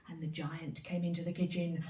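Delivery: plain reading voice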